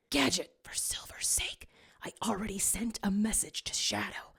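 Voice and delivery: unvoiced secret whisper. Sonic whispers orders to Gadget in a huddle. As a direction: keep it hushed inside the huddle.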